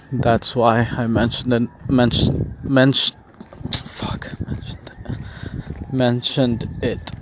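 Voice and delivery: stoned, tripping over the word; high and fumbling a word. Real, not acted. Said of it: "Sorry, I'm high".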